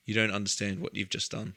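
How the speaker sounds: soft, low disappointed dad; quiet disappointed sighing. Retold or imitated. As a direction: let the disappointment sink, softly. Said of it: "disappointed dad impression".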